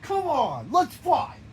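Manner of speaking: loud, high call to fight; shouted battle challenge. Acted. Character calls a rival out to fight, shouting. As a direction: yell it like you're ready to brawl.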